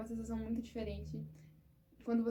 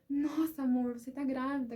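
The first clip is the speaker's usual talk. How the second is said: higher and louder, overjoyed; joyful exclamation; 3 semitones higher, 5 dB louder than usual. Retold or imitated. Husband hearing wife is pregnant, overjoyed exclamation. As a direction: burst out with delight at the news. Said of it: "com aquela alegria".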